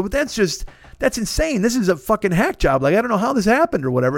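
retold outrage. Ranting to bank clerk, retold.

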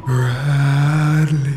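the voice drawing nearer. Acted. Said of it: "The voice grew louder".

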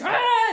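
loud high playful scream; mock scream. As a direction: yelp as the ship drops. Ride crashes into bay.

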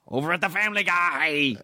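high, stretched-out hype announcer; mock announcer. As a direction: draw the show name out like a rally promo. Mock announcer bit continues.

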